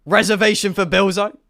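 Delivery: mock-dignified reservation request; formal request. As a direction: announce yourself with ceremony. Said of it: "clears throat".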